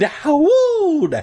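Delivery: long, loud, wind-like howl; drawn-out howl. A narrator's reading. Narrator reading a spooky night scene, drawn-out howl. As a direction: draw the word out like wind. Word howled acted out in reading.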